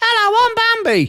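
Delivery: very high, dolly little doll-like voice. Mocking how a viewer called The Fight Channel talks: imitating The Fight Channel's way of speaking. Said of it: "He speaks like this".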